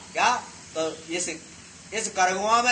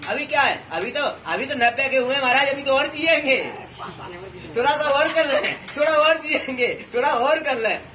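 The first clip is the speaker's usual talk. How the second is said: put-on higher, louder old man begging for more; greedy old man; 4 semitones higher, 4 dB louder than usual. Monk imitating a ninety-year-old to the congregation, eager higher pleading. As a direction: plead for just a little more time.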